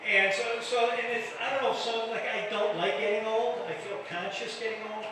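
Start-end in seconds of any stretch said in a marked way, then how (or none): none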